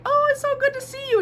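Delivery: over-the-top hello to a classmate; mock gushing greeting. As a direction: gush like meeting an old friend.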